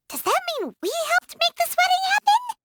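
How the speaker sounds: jumps high in surprise; the penny drops halfway through; sudden realization. Acted. Paimon realizing they helped the wedding, surprised.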